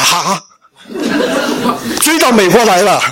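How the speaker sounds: laughing while saying it; a helpless laugh at being chased down; nervous laughing surprise; rueful laugh. Real, not acted. Parents arrive in America.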